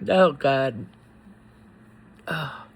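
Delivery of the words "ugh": soft pained groan. Real, not acted. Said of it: "I'm emotional".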